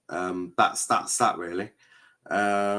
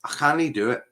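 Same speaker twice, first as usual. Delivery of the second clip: a hint of Scottish accent; accidental Scottish lilt; slightly Scottish; 5 semitones higher, faster than usual. Real, not acted. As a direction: let a little Scottish creep in, higher pitched. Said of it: "that was quite Scottish".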